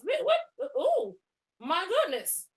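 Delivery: high-pitched pretend scandal, laughing; mock shock. Woman mocking her rival's outrage, high mock shock.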